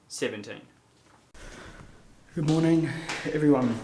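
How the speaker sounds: echoing in a stairwell; echoey stairwell. Real, not acted. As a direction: talk in a bare stairwell with echo. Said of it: "sorry about the echoey stairwell".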